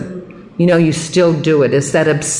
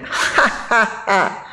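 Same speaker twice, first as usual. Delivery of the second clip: mock burst of laughter; imitated laughter; 5 semitones higher, 4 dB quieter, much slower than usual. Guard laughing at her amends, imitated laugh. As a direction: imitate his big ha-ha laugh. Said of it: "Started laughing".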